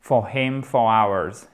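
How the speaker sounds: slow "For him for hours" with the h of "hours" silent and the h of "him" voiced; slow "hours" like "ours". Shown as a demonstration. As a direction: breathe the h in "him", skip it in "hours". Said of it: "Ne faites pas le H aspiré".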